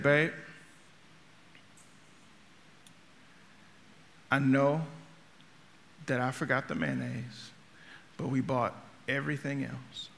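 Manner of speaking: calm her hangry husband down softly. Retold or imitated. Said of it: "she said in a very calm voice".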